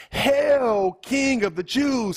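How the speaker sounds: high, sneering mock homage; mocking soldiers. Soldiers mocking Jesus with a crown of thorns, high sneering hail. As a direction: hail him like a joke king. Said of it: "So they're making fun of him".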